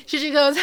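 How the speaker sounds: gleeful high maniac cackle; maniacal laugh. Acted. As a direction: cackle in mad glee. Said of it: "laughs, like a maniac".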